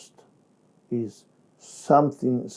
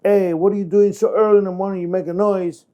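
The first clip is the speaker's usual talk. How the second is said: complaining neighbor; 5 semitones higher, faster than usual. Shown as a demonstration. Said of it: "neighbor come out and tells him".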